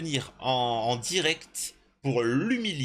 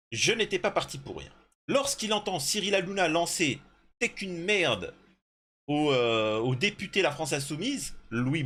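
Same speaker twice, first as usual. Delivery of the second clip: article lu à voix haute; 5 semitones higher than usual. Real, not acted. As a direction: lecture posée façon voix off de reportage. Reads an article aloud. (lecture de reportage)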